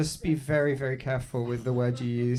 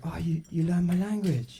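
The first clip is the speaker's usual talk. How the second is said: waiter's mock reply; 3 semitones higher than usual. Waiter's reply to his protest.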